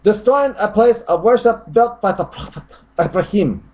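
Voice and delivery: high put-on voice of an objector; mock critic's voice. Reads out a critic's comment.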